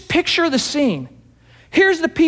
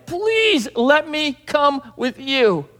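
begging; 3 semitones higher, much slower than usual. Retold or imitated. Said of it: "And he's begging him".

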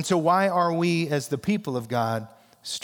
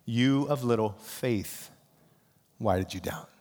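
gentle rebuke; 6 semitones lower, 5 dB quieter than usual. Retold or imitated. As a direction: let it fall quietly, like a sad friend. Jesus gently rebukes sinking Peter.

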